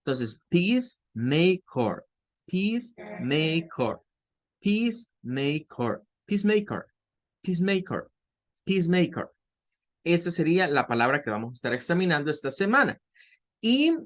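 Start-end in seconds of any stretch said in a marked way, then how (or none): 0.5-9.3 "peacemaker" slow, long ee, schwa at the end; careful repeated model of "peacemaker"; slow model pronunciation. Shown as a demonstration. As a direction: drill "peacemaker" slowly, syllable by syllable. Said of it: "es un schwa".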